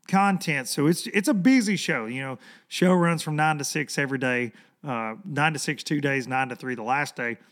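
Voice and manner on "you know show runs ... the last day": hoarse, worn-out voice. Real, not acted. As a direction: talk with a voice gone hoarse. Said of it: "that's why I sound like Kermit".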